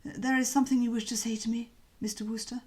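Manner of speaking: a lightly voiced cowed old Bassett; eager waiter tone, subdued; corrected Bassett voice. Shown as a demonstration. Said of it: "wrong voice".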